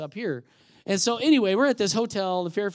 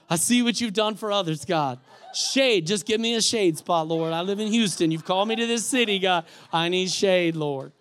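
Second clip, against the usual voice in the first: mock pleading; 2 semitones higher, 6 dB louder than usual. Preacher mimicking prayer for a parking space, mock pleading. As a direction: plead in hammed-up desperation, half laughing.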